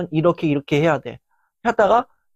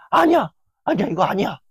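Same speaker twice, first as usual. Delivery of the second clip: frustrated refusal. Retold or imitated. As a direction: burst out rejecting the compliment, then insist. Perfectionist rejecting others' praise.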